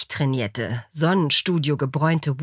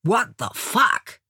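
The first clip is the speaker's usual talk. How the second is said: slow, raised American exclamation; drawn-out, half-shouted disbelief; mild shout; 4 semitones higher, slower than usual. A narrator's reading. American startled by the intruder, mild slow shout. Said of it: "schrie der Ami".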